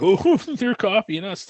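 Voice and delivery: high, slow mock whine; mocking complaint. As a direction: drag it out high, laughing at them.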